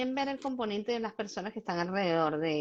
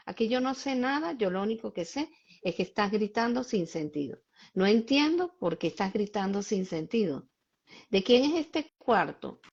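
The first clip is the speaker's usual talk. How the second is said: calm firm limit-setting. Shown as a demonstration. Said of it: "Cuando yo hablo así, en el nivel de tranquilidad que tengo".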